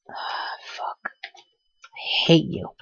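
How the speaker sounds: whispered furious despair; angry crying. Real, not acted. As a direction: spit it out, hurt and raging. Character dies, raging at game.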